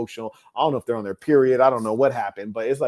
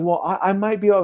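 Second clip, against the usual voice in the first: high, louder mock of a wavering woman; mimicked caller; 8 semitones higher, 6 dB louder than usual. Caller hedging to the hotel guest, mocking high voice. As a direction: imitate her hedging, pitched well up.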